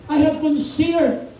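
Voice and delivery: slow, deliberate quoting; slow scripture reading. Shown as a demonstration. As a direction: draw each phrase out. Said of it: "Sabi niya". (mabagal na pagbasa ng Bibliya)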